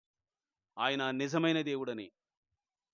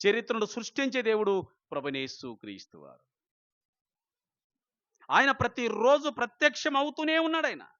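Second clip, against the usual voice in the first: much higher and louder fiery preaching; preaching at full force; 9 semitones higher, 7 dB louder than usual. Acted. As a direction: challenge the congregation at the top of your voice.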